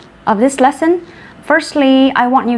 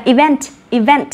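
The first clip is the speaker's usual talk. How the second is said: event, repeated with weight on "vent"; teacher's careful event, stress at the end; stress on second syllable. Shown as a demonstration. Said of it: "Trọng âm của từ event lại rơi vào vent".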